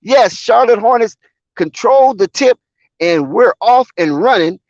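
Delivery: loud, high tip-off shout; hype shout. Real, not acted. Commentator opening the game for fans, shouting. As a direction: belt it like a ring announcer.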